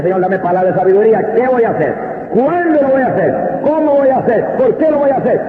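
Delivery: urgent prayer, pitch climbing on each question; pleading prayer. Retold or imitated. Pastor on his knees asking God for wisdom, pleading.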